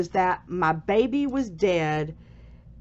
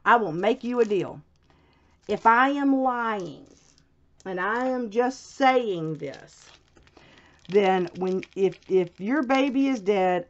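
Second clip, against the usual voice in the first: retold solemn deal; 3 semitones higher than usual. Nurse offering the patient a deal, retold deliberately.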